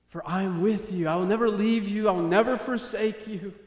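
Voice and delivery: impassioned divine promise. Acted. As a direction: promise it firmly, pitch lifting. Acting God's promise to David.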